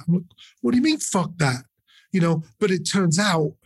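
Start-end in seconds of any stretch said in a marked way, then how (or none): 0.6-1.6 higher-pitched mock incredulity; mildly indignant retold comeback; retold disbelief. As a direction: question it as if baffled. Retells own baffled reaction to punk.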